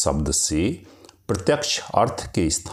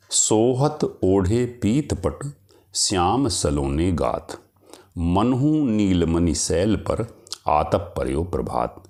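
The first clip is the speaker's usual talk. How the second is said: poem recitation. Acted. Reciting verse example.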